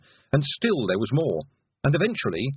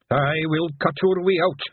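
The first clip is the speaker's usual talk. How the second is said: shout; 6 semitones higher, 4 dB louder than usual. Acted. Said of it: "shouted Daft Woolly".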